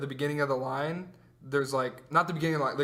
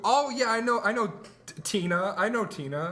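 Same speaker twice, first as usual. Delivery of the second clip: mock fake casual; 5 semitones higher than usual. Mocking himself lying to parent.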